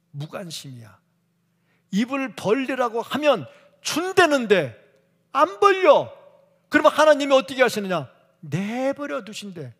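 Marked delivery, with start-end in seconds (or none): 1.9-9.7 shouted and higher, peaking on 안 벌려; full-force preaching. Acted. Preacher warning the congregation, shouting at full force. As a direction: cry it out at the top of the voice.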